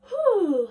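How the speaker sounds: high, loud exhaled whoop; loud rising-pitch puff of relief; whew. Real, not acted. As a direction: let out a big high "whew". Warm-up, blowing out.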